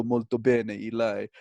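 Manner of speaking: "Molto bene, e lei?" with a native Italian accent; native Italian reply. Shown as a demonstration. Playing the Italian answering his greeting. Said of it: "the other person would go".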